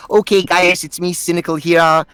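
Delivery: Kiwi accent, Irish meets Australian; New Zealand accent. Shown as a demonstration. Actor demonstrating his game character's accent, New Zealand accent. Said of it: "a little bit like Irish meets Australian".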